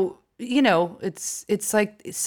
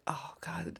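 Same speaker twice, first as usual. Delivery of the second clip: 1 whispered aside; 19 dB quieter than usual. Retold or imitated. Retelling a groan at the quiz.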